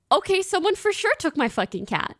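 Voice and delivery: high, alarmed cry; panicked quote. Retold or imitated. To herself, sure the cat was stolen, alarmed. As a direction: insist someone stole the cat.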